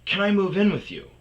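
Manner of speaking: put-on high, loud girly voice; put-on eager female voice, high and loud; imitated woman. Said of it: "She goes".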